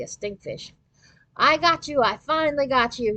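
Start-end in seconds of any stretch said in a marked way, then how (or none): 1.4-3.2 high, loud gleeful yelp; excited yelp. A narrator's reading. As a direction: yelp with triumph. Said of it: "Nick yelped".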